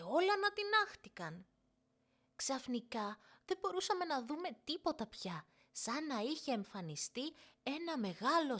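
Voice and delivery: put-on high, rushing child's excuse; quick excited girl. Girl hurrying a fib to her mother, high and eager. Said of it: "είπε γρήγορα η Νίνα".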